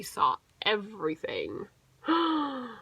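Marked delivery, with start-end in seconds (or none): 2.1-2.7 very high, loud wailing cry; crying little bears. Acted. Two little bears crying about their porridge. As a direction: wail it like two tiny bears. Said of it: "they cried".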